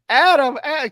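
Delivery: high mock yell of a name; hammed-up cry for a friend; imitating a scream. Co-host retelling the hospital bed scene, mock screaming. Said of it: "Roddy's screaming".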